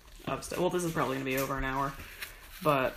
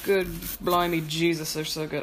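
mock Irish accent. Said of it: "getting into an Irish accent".

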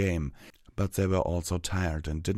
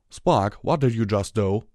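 worried; 4 semitones higher, 7 dB louder than usual. Acted. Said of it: "Applejack asked worriedly".

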